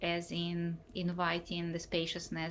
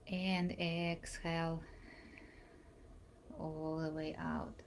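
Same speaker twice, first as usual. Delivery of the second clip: guided breathing. Real, not acted. Leads a breathing exercise.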